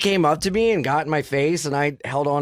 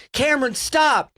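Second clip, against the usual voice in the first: wife yelling; 10 semitones higher than usual. Retold or imitated. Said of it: "you hear the wife be like".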